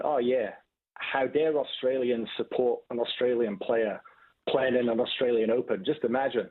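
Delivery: slow, mock-earnest sarcasm; sarcastic. Big fan mocking the crowd's critics, sarcastic and slowed. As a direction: drag it out like you're rolling your eyes. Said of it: "saying sarcastically".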